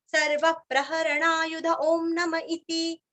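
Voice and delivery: सर्व stressed, ओम long, इति with a sharp ति; आदर्श उच्चारण; model phrasing. Shown as a demonstration. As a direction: recite the line the way the teacher models it. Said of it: "ऐसे".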